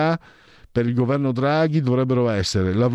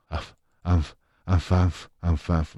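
mock panting "anf anf"; 4 semitones lower, much slower than usual. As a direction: pretend puffing, said as a word. Mock panting toward the last poll.

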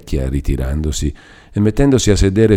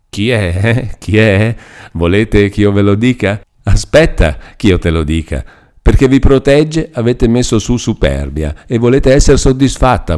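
high, loud nagging crone; an old woman sneering and scolding at a frightened girl; bitter old hag voice, raised high and loud; 4 semitones higher, 4 dB louder than usual. A narrator's reading.

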